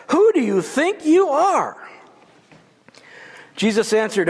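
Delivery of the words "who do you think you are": indignant challenge. Acted. Crowd challenging Jesus.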